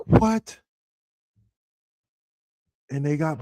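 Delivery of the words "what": much higher, baffled "Like, what?"; incredulous what. Real, not acted. Host reacting to the fans' chant, high incredulous disbelief. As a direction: throw up your hands in disbelief.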